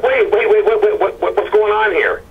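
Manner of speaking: a hint of the frantic stop-him call; alarmed retold questioning. Retold confronting the tow driver.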